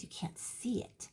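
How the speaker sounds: hushed whispered aside; whispering. Real, not acted. Aside about the hidden underside.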